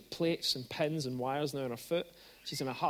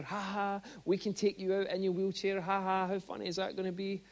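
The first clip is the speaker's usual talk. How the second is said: mock jolly friends; 2 semitones higher than usual. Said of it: "they thought it was hilarious".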